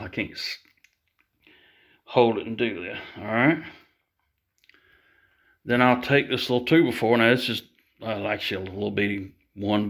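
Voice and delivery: talking around screws held in mouth. Real, not acted. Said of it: "I gotta stick some screws in my mouth".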